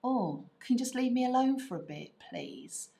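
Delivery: fed-up parent's hurried plea; leave-me-alone parent. Acted. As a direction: rush it, then let the last word fall away. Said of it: "which mean".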